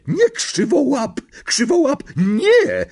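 high, loud scolding shout; shriek. A narrator's reading. Witch shouting at her pouncing cat, high alarmed shriek. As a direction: yell sharply to stop an animal. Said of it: "wrzasnęła czarownica".

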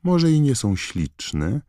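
high-pitched irritated retort; acted indignant Hermione; snapping. A narrator's reading. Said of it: "warknęła Hermiona".

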